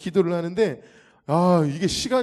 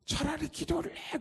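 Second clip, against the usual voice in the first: mocking demon voice; 12 semitones higher, 7 dB quieter than usual. Possessed man taunting.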